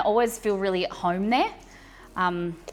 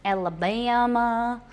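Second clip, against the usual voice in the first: put-on slow, drawling Southern belle accent; 2 semitones higher, slower than usual. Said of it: "to practice her accent".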